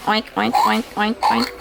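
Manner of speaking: playful spoken oinks; pig oinking. Pretend. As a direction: imitate a pig lightly, oink after oink. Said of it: "That's the pig".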